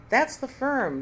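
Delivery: a sudden triumphant shriek of accusation. Acted. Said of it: "Nina shrieked".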